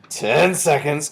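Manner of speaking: very slow, high, loud countdown; witch crying out. A narrator's reading. Grand High Witch nears zero, crying out slowly. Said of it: "cried the Grand High Witch".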